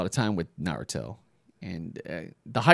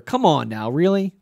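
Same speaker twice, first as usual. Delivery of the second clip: high, loud disbelief; really, you can't be serious; incredulous; 6 semitones higher, 5 dB louder than usual. Real, not acted. Commentator reacting to a dodge, incredulous.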